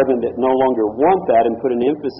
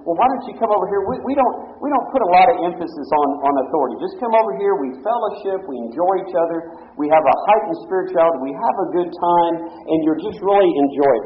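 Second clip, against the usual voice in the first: mock sweet invitation; 3 semitones higher than usual. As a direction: lure them in like a smooth recruiter. Imitating house church recruiter.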